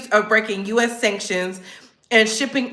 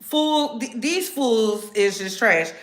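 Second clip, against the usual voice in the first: mocking critics; 4 semitones lower, much slower than usual. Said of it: "People are like".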